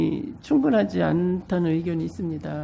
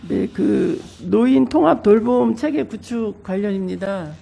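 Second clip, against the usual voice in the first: speaking through a blocked nose; stuffy nose; 6 dB louder than usual. Real, not acted. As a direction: voice thick with a cold. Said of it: "제가 감기에 걸려서". (감기 걸린 코맹맹이 목소리)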